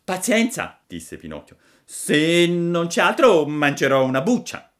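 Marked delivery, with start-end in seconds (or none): 0.0-0.8 loud high pleading puppet. Acted. Pinocchio chiede a Geppetto se non c'è altro, voce acuta. 1.8-4.7 fussy high puppet demand; a picky wooden boy making terms. Acted. Pinocchio pretende che Geppetto sbucci le pere, voce acuta.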